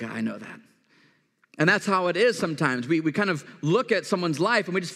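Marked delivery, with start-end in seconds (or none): 0.0-0.6 weary. Retold or imitated. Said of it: "he's like".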